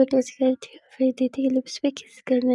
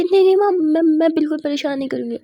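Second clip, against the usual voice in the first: hasty flustered promise; 3 semitones higher, 6 dB louder, faster than usual. Acted. Hastily promises her threatening mother.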